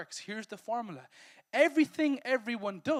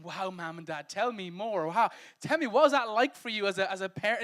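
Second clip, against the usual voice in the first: mock eager teenager; 6 dB louder than usual.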